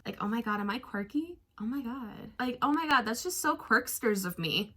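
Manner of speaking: soft, hushed valley girl mockery; sarcastic quirky girl impression. Mocking her quirky self-image.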